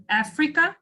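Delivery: "Africa" with the first syllable stressed. Shown as a demonstration. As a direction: hit the opening A of "Africa". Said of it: "there is three stressed syllables".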